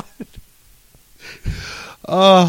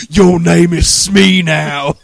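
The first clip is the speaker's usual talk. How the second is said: pirate voice; 3 semitones higher, 7 dB louder, much slower than usual. Retold or imitated. Pirate renaming captive.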